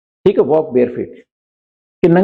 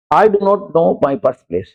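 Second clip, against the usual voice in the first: very slow, word by word; slow example sentence; much slower than usual. Shown as a demonstration. Teacher reading an example sentence to students, very slow. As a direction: read each word slowly for the class. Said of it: "example sentence read slowly".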